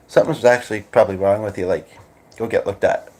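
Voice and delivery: low, earnest delivery with no joke in it; serious. Shown as a demonstration. Host showing how it sounds if meant seriously, serious. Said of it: "Like, seriously".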